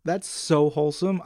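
ordinary talk, nothing marked

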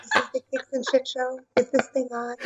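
put-on timid baby deer. Mocking her own first episode, a timid baby-deer voice. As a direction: play a nervous first-time podcaster, timid and unsure. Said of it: "I sounded like a baby deer".

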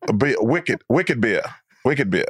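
low Bostonian "beer" without the r; Boston accent. Shown as a demonstration. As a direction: drop the r in "beer", Boston style. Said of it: "Australians and Bostonians pronounce beer the same way".

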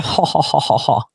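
low, soft imitation laugh; put-on "ha ha" chuckle; mock laughter. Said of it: "while many people laugh".

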